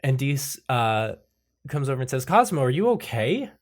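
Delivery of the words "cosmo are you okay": concerned. Acted. Dees worriedly checks on panicking Cosmo.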